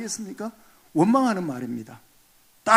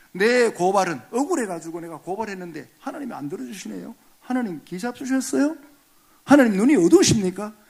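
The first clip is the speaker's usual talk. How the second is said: griping at God; 4 semitones higher, 4 dB louder than usual. Retold or imitated. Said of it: "라고 막 원망 따지는 거예요".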